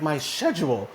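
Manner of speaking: British pronunciation of "schedule", lightly imitated; rough imitation of a UK accent; butchered English accent. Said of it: "I'm gonna butcher her accent".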